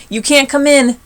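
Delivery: high, loud bully's yell; bossy shout. A narrator's reading. Sammy blocks Kevin at the playground, shouting bossily. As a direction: bark it like the playground king.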